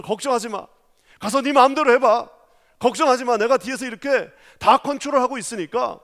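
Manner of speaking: put-on a proud dad cheering his kid on, loud; encouraging father. Father urging his son forward, loud and reassuring. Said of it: "아버지가 씩 웃으면서".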